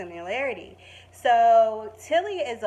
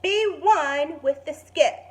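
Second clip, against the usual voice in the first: slow, loud, higher guru voice; mock wise teacher; 6 semitones higher, 6 dB louder than usual. Big sister teaching her brother to skip, slow sage voice. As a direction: coach him like a sage, slowly.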